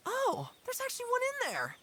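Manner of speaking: mock surprise. Fakes finding pearl.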